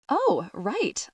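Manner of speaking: surprised. Acted. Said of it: "I say in surprise".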